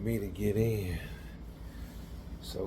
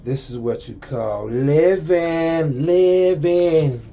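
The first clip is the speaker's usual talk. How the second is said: belting out; 4 semitones higher, 10 dB louder than usual. Real, not acted. Building up, belting living.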